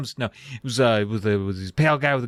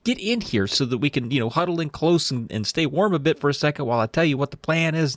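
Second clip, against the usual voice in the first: higher-pitched, insistent character voice; 5 semitones higher than usual. Retold or imitated. Terry ordering the kids into the cave, insistent. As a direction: pitch up high, then ease down while insisting. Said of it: "Terry insists".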